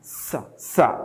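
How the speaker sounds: "Sa, sa" as two separate clear syllables; isolated S sound. Shown as a demonstration. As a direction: repeat "Sa, sa" with a voiceless S. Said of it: "O som de S mesmo".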